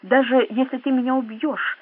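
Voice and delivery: usual speaking voice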